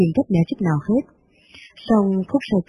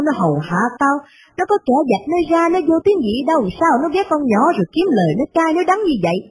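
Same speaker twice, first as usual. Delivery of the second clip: put-on a touch higher, indignant old lady scolding; angry old mistress; 4 semitones higher than usual. Old mistress fuming over her son's letter, mildly raised voice. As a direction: grumble like a resentful rich matriarch.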